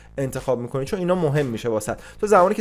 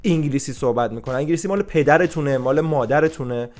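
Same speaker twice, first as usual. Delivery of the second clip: raised pitch, telling people off; exasperated scolding; 2 semitones higher than usual. Real, not acted. Telling mockers to mind their own business, scolding. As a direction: scold them with real exasperation.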